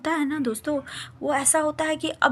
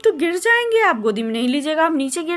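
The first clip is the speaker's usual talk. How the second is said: scared refusal; 6 semitones higher, 4 dB louder than usual. Retold or imitated. Scared child refuses to jump.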